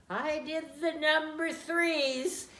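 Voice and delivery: put-on high, loud, slow toddler voice; little child voice. Toddler tells mom what she did, high child voice. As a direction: say it like a proud two-year-old. Mother imitates toddler's answer.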